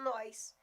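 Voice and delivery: NÓS drawn into "nóis"; regional pronunciation. Shown as a demonstration. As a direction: say NÓS with an added I glide, "noys". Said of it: "porque é regionalismo".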